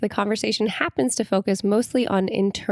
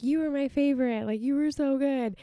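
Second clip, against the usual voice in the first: higher-pitched, lightly imitated fan gush; gushing praise; 5 semitones higher than usual. Festival fans complimenting a burlesque performer, mock gushing. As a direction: imitate an admirer paying a compliment.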